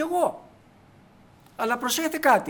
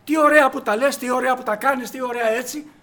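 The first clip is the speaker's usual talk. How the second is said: mock flattery; 3 semitones higher, 5 dB louder than usual. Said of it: "σου αρέσει να σε καλοπιάνει".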